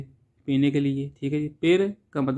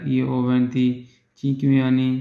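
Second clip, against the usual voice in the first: slow model sentence; much slower than usual. Shown as a demonstration. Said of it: "teacher models Italian slowly".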